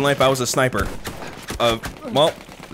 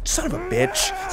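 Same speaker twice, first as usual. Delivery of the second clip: high, slow curse; exasperated cursing; 13 semitones higher, 4 dB quieter than usual. Real, not acted. Gamer cursing at dying, high drawn-out exasperation.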